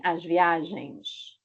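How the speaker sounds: viagens said slowly so the ns ending is clear; careful teacher example; slow demo. Shown as a demonstration. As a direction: stretch the plural out for students. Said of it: "troca por N S".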